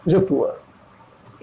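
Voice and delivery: रिपोर्ट drawn out very slowly; slow American rapport. Shown as a demonstration. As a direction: stretch रिपोर्ट slowly for students. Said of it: "रैपो या फिर".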